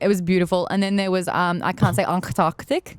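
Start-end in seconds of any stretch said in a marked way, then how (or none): 1.6-3.0 imitated caller saying "Antarctic" with a slow, German-like "onk-tock-tick"; slow German-accented stumble on "Antarctic"; German-sounding accent. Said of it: "Why are you doing it, like, in a German accent?".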